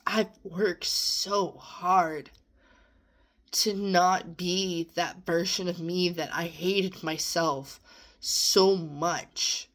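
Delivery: slow, halting words holding back tears; getting emotional. Real, not acted. Telling viewers about her past self, near tears. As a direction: push through a lump in the throat. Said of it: "I'm not trying to get emotional".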